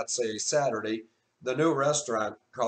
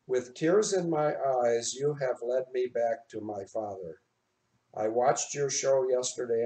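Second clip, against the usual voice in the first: reading through tears. Real, not acted. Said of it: "I'm already starting to cry".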